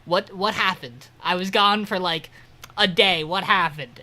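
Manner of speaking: a hammed-up friend demanding answers; mock exasperated yell. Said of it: "He goes".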